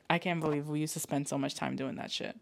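normal talking voice

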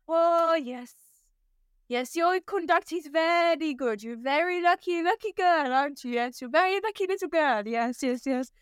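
approving German gentleman, imitated; heavy German accent. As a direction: praise in a mock German accent. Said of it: "very heavy German accent".

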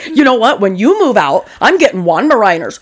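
emphatic, hammed-up movie quote; playfully indignant announcement; acted defiance. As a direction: declare it like a film comeback. Acting out a Juno scene.

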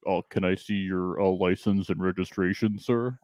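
lightly voiced cop at the car window; traffic cop. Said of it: "getting pulled over by a cop impression".

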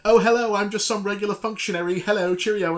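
mock chipper actor cameo. Mocking the famous cameo actor's breezy innocent hello. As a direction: play the famous actor pretending he's nobody important. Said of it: "just says".

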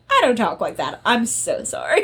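put-on Australian accent, apologetic; laughing through an imitated Australian accent. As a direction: slip into a mock Australian accent. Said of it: "like, an Australian accent".

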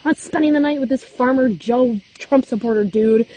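high, pleading voice easing down; half-sobbing demand, pitched high; retold panicked crying. To her boyfriend on the phone, high retold panic. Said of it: "I'm like".

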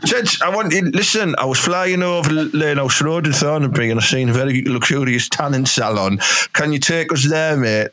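high mock president voice, hammed up; Trump impression. Mate retelling Trump asking for a lift, high mock Trump voice. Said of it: "He went".

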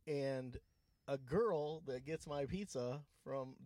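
mic cutting out. Real, not acted. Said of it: "you're not making any sound anymore".

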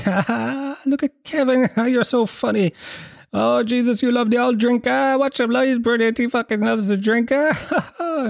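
high, laughing party adults; mock laughing crowd. Adults laughing at drunk Kevin, high and giddy. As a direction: cheer him on through laughter. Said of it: "Everyone was like".

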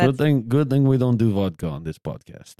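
shoddy mock Russian accent; bad Russian accent. Host joking about vodka, bad Russian accent. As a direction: keep up a badly faked Russian accent. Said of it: "doing shitty Russian accent as well".

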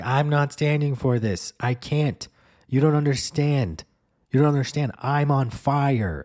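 high, loud desperate pleading; frantic outburst. Retold or imitated. Woman at the DMV counter pleading with the clerk, high and loud. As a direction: insist nobody understands, near hysterical. Same woman escalating at window.

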